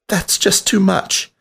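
high, small rat voice giving up; a timid rat voice, resigned and pleading; defeated drawl. A narrator's reading. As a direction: sound beaten and overwhelmed. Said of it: "a drawl of defeat in his voice".

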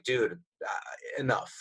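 hushed breathy whisper; whispered resolve. Retold or imitated. Interviewer voicing an addict's inner resolve, whispered. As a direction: whisper it to yourself like a last straw.

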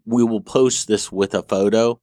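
muffled inside a helmet; talking through a stormtrooper helmet. Real, not acted. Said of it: "This helmet is hot as hell".

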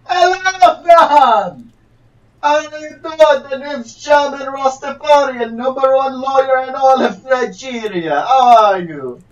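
hammy fake Nigerian accent; a put-on Nigerian lawyer voice. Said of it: "this is not a Nigerian accent".

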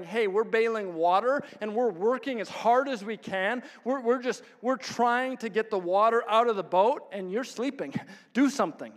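mildly exasperated retold grumbling; resentful complaint. Disciples bailing water complain to sleeping Jesus, mildly resentful. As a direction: imitate aggrieved crewmen mid-effort. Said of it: "they're probably resentful, going".

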